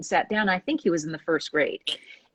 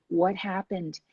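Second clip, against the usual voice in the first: soft, slow, caring ask; gentle question; 7 dB quieter, slower than usual. Retold or imitated. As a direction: ask it gently, no scolding at all. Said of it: "He didn't berate or scold that child".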